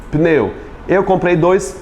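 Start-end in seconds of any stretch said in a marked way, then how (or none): 0.1-0.5 "pneu" as one syllable, p joined to n; pronúncia sem I. Shown as a demonstration. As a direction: say "pneu" with no i after the p. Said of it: "na verdade é pneu". ("pneu" sem vogal entre p e n)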